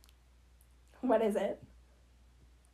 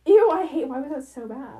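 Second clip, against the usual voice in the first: mocking TikTok girl; 11 dB louder than usual. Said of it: "that one girl on TikTok that is like".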